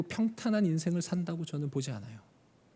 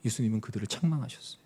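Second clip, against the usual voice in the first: ordinary talk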